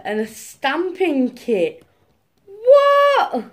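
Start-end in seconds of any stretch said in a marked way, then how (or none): 2.5-3.4 high, loud surprised what; stunned what; shocked what. Real, not acted. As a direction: gasp out what in disbelief. Surprised at unboxing.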